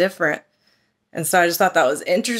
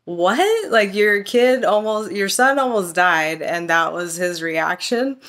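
disbelief; slower than usual. Retold or imitated. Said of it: "I was just like".

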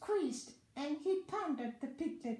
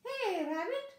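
high, loud call at the door; hearty shout from outside; yelled call; 9 semitones higher, 5 dB louder than usual. A narrator's reading. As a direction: call out for someone inside, loudly. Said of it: "someone yelled outside".

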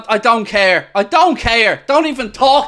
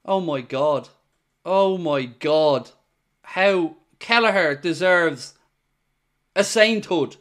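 stunned hush; 8 semitones lower, 7 dB quieter than usual. Real, not acted. Relief after the keeper's saves.

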